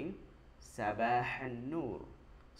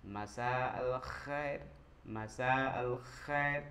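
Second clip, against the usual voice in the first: slow, careful model; slower than usual. Shown as a demonstration. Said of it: "Good evening".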